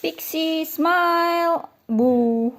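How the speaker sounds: calling out. Real, not acted. Calling dog for photo.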